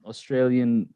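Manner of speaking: muddled mix of British and Australian; British-Australian accent. Real, not acted. Host puzzling over own accent, British-Australian mix. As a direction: lightly put on a British-Aussie accent. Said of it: "It's like a British".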